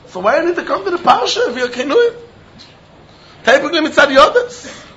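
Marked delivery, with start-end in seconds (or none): 0.1-2.1 laughing. Real, not acted. Rhetorical question, laughing.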